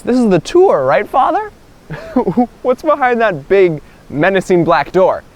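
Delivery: high, nervous laugh into the question; mock-nervous guest, pitch jumping up; uneasy questioning. Guy nervously questions the monk.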